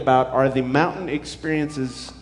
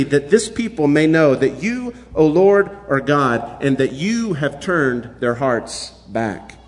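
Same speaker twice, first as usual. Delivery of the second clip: scripture reading. Acted. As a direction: read it out to the congregation with weight. Reads the scripture passage aloud.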